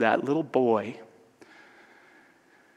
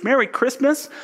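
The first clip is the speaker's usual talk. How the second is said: mocking; 12 semitones higher, 4 dB louder than usual. Scrooge mocks the greeting.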